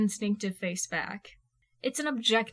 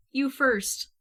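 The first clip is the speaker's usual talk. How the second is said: ordinary delivery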